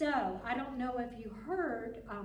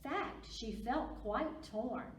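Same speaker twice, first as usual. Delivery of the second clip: lively picture-book read-aloud; reading to children. Acted. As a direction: read it to little kids with big expression.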